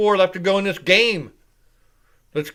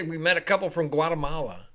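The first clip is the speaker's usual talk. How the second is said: Spanish pronunciation. Retold or imitated. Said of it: "You gotta say it like that".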